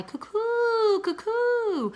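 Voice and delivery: high, slow trumpeting call; swan's cry. Acted. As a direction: call out proudly in flight. Father imitating swan cry.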